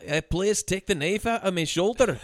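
put-on light Scottish accent, pained; a mild Scottish accent for a pinned man. Retelling the movie to friends in a light Scottish accent. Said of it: "Your Scottish accent".

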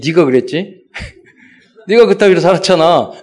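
half-laughing mock rebuke to an old friend; laughing scolding. Pastor retelling how he scolded a friend, laughing. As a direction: chuckle through the telling-off.

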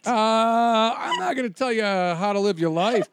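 imitated agent, loud and high; mock-alarmed agent easing into a warning. Agent cautioning an actor client about haircuts, alarmed warning.

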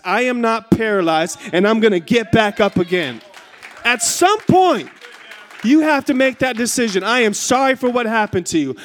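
emphatic preaching with punched key phrases. Real, not acted. Preacher urging hurting people to get back up, forceful preaching. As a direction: urge the congregation on with rising force.

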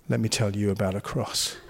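mocking a cheesy gospel pitch at the football; cheesy preacher. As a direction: lean in like a cringey evangelist. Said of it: "Oh, cheesy".

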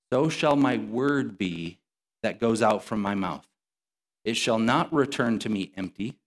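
measured, deliberate Bible reading; scripture reading. Acted. Preacher reads God's words to the congregation, slow scripture reading. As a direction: read it out slowly with weighted pauses.

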